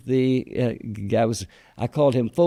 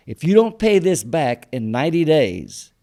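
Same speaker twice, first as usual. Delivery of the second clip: retold warning, a touch raised; stern warning; 2 semitones higher, 3 dB louder than usual. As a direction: imitate a banker laying down an ultimatum. Loan officer warns the borrower.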